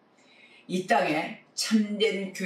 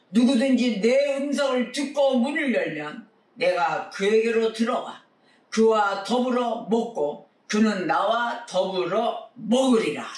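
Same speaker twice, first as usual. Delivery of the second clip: raised, ringing Bible recitation; scripture proclamation; 5 semitones higher, 4 dB louder than usual. Real, not acted. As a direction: proclaim the verse to the congregation. Proclaims a verse from Revelation. (높은 목소리로 성경 말씀을 선포하듯)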